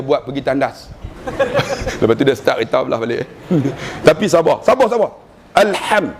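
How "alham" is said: "Alham" with a clearly articulated breathy h; correct "alham". Shown as a demonstration. Teacher showing the correct sound, careful "Alham". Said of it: "Nak sebut betul alham".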